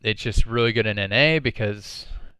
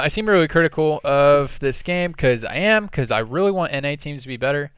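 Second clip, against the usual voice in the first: passionate; 4 semitones higher, 5 dB louder than usual. Real, not acted. Passionate rant about NA teams.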